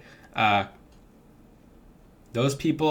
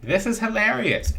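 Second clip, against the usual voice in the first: cheerful affirmation; 7 semitones higher than usual. Shown as a demonstration. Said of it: "affirm it like this".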